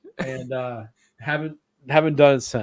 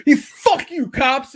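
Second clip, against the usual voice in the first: much higher and louder, through a laugh; hammed-up shout of defiance; mock yell at cops; 10 semitones higher, 8 dB louder, slower than usual. Drugged friend Mike cursing the police, laughing mock yell.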